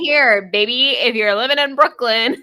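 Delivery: loud, brash New York tough talk; tough New York accent. Pretend. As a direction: lay down the law like a Long Islander. Tough Long Islander persona.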